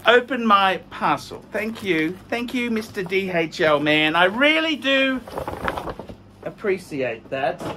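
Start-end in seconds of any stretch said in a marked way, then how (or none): 1.5-7.6 mock gratitude with sarcasm; dry sarcastic appreciation; sarcastic thanks. Real, not acted. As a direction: thank them sarcastically, stretching the sincerity. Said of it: "I'm being sarcastic".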